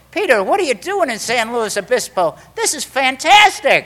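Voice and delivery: high, loud excited greeting; squealed delight, imitating the sponsor's wife; delighted surprise. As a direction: gush at an unexpected friend.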